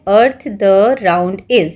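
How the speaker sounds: very slow, word-by-word reading of the scrambled order; slow reading of the jumbled sentence; jumbled words read slowly. Shown as a demonstration. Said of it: "तो क्या है".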